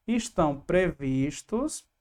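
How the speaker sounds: Estão said slowly with a rising tune; corrected plural. Shown as a demonstration. Teacher correcting the verb to plural, slow and stressed. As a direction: stretch out Estão to show the plural. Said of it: "era pra estar no plural".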